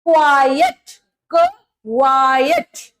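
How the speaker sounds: "quiet" as kwaa-yet, stretched and rising at the end; broken-down quiet. Shown as a demonstration. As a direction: sound out "क" alone, then a long "quiet". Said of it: "आधा क और व". (quiet को आधा क और व जोड़कर, क्वा-येट)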